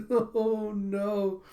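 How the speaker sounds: high mock-tearful moan; crying.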